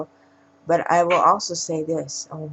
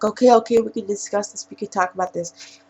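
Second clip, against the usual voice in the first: imitating hurried bargaining, higher at first; mock pleading; 5 semitones higher, 6 dB louder than usual. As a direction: mildly act out a cornered man stalling. Cornered man bargaining in retold scene.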